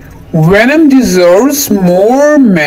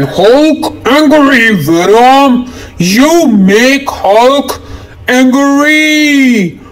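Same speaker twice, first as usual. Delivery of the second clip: angry Hulk; 3 semitones higher than usual. Acted. Kid voices furious Hulk.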